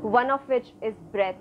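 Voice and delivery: measured meditation guidance with long pauses; guided meditation. Real, not acted. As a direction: lead the breath, leaving space between phrases. Leads breathing meditation. (guided breathing meditation)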